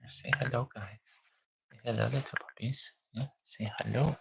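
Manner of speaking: soft, hushed puppy talk; talking to puppies. Real, not acted. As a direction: coax them gently, hushed. Greeting newborn puppies on camera.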